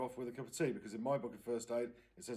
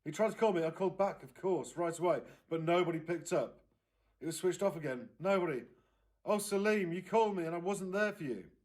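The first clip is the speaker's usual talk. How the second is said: upset aunt, higher and louder, wailing toward the end; rising wail; 6 semitones higher, 6 dB louder than usual. Acted. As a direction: wail for the missing boy. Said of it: "came out in a wail that grew louder".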